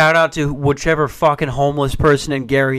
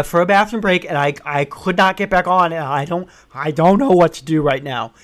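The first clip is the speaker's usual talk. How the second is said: panicked pleading. Retold or imitated. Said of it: "this is what I actually sounded like".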